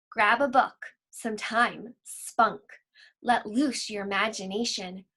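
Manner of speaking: gentle poem reading; unhurried expressive recital; own poem recital. Acted. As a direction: share your poem like a reading. Reads her own poem aloud.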